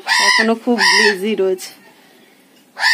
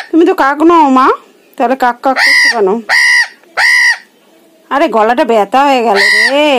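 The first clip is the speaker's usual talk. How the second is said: louder, chiding the bird; loud fond scolding; 2 semitones higher, 4 dB louder than usual. Real, not acted. Mother scolding her screeching pet bird, loud and fond. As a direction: tell the noisy bird off, fondly.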